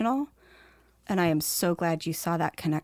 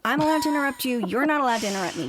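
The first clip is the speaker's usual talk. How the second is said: playful mock scolding, faster on the last two lines; mock bossy; 5 semitones higher, faster than usual. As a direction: tease him like a bossy boss, ALLOWED and NOT punched. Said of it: "Oh, watch this".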